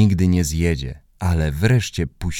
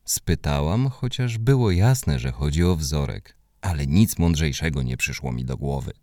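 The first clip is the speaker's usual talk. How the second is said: ordinary delivery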